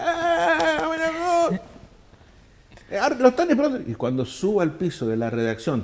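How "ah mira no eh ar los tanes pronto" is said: high, loud laughing greeting; imitating excited doormen. Doormen at the magazine welcoming the traveller, high loud excited. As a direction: greet him like a thrilled doorman.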